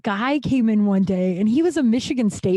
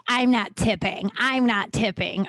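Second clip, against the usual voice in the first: mock stingy customer; slower than usual. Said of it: "people who are like".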